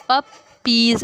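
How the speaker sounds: "पपीज" split as प, पीज; two syllables. Shown as a demonstration. Teacher showing two syllables, "पपीज" said in two distinct beats. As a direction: pause between the two halves of "पपीज". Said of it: "दो syllable बने हैं".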